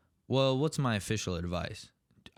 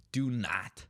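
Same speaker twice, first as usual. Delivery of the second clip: hushed whispered warning. Acted. Whispering a warning to job seekers.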